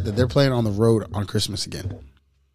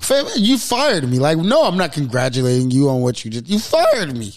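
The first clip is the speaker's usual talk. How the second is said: indignant retort. Retold or imitated. Fired employee snapping at his old boss, indignant. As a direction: scoff it back at the boss who fired you.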